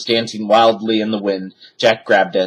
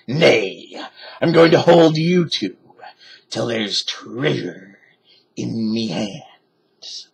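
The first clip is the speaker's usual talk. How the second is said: gruff pirate captain; slower than usual. Acted. Pirate captain threatens captured kids.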